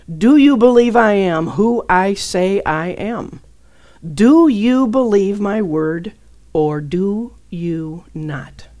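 slow, deliberate challenge; God's challenge. Retold or imitated. God questions her faith, slow and deliberate. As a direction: press each word slowly. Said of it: "That's what he said to me".

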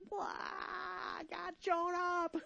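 high, slow, amazed cry of wonder; slow, high, tearful wonder; awed exclamation. Pretend. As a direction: gasp it out in awe as if God just arrived. Imitating a believer's awed reaction.

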